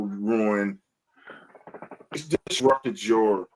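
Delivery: deliberate, understated mock apology; sarcastic sorry. Shown as a demonstration. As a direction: spell out an apology you don't mean. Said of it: "It's a sarcastic sorry".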